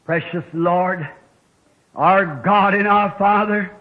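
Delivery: slow, earnest public prayer; measured prayer from the pulpit. Real, not acted. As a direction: address God reverently, in long pauses. Leads congregation in prayer.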